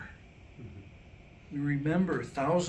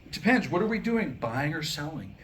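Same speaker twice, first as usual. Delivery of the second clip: put-on shrewd kid voice. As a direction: bargain like a sly little trader.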